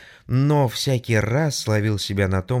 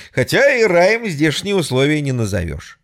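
higher wry quip; smirking; 5 semitones higher, 3 dB louder than usual. Acted. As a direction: say it with a grin. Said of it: "ухмыльнулся я". (с ухмылкой)

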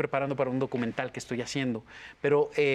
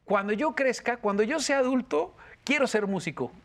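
put-on child asking father; 6 semitones higher than usual. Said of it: "se había acercado a su papá y le dijo".

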